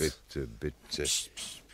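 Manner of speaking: soft unvoiced shushing; hushing. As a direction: hush everyone with quick psst sounds. Holmes hushes the others.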